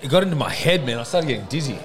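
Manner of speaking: lips burning from hot sauce; talking through a burning mouth; mouth burning from spicy food. Real, not acted. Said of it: "around my mouth is just on fire".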